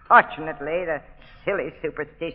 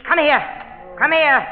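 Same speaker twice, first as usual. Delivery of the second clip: shouted command; 9 semitones higher, 4 dB louder than usual. Acted. Mistress commanding the zombies.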